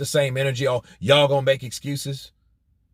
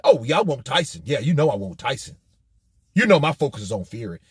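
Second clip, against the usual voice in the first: mock eager; faster than usual. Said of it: "But with Tyson".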